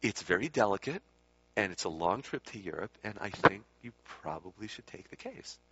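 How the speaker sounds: measured, careful advice; slow and cautious. Retold or imitated. Student gently advising Swami to take the case, slow and cautious. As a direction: tread carefully, spacing out the phrases. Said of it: "a little more slowly and a little more cautiously".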